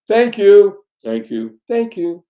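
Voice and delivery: first thank you burst out loud, then varied; emphatic thank you. Shown as a demonstration. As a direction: proclaim it, then repeat. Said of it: "these two words are".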